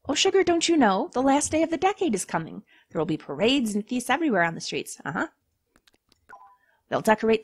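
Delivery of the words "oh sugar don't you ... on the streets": sweet demon voice. Acted.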